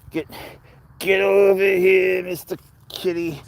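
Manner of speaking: high, drawn-out sing-song call to the cat. Real, not acted. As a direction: stretch it out high to lure the kitty. Calling the cat from plants.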